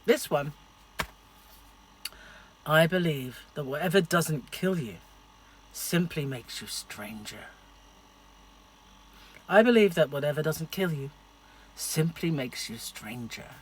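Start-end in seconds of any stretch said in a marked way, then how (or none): 2.6-7.5 a hint of a Scottish accent, slow ending; lightly put-on Scottish accent. Shown as a demonstration. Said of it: "my fabulous Scottish accent". 9.5-13.5 harder Scottish accent. Shown as a demonstration. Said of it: "A little bit harder".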